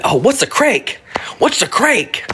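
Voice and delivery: imitating a hushed "what's a crank", unvoiced; mock whispered question. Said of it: "Which means, like".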